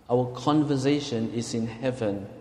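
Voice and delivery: measured scripture reading; deliberate reading of a verse; slow reading. Real, not acted. Reading Philippians to the congregation, slow and deliberate. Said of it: "let me just read slowly".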